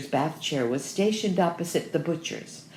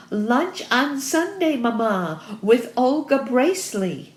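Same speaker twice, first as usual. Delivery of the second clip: high, loud, slow call for a deaf mother; screamed; 7 semitones higher, 5 dB louder than usual. A narrator's reading. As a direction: scream it out word by word. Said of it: "screamed Goosey".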